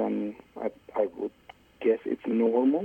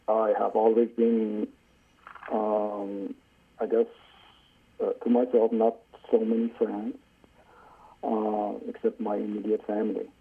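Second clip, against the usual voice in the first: caller on muffled speakerphone; muffled phone line; 2 semitones lower than usual. Real, not acted. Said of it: "Your, your voice is coming a little muffled".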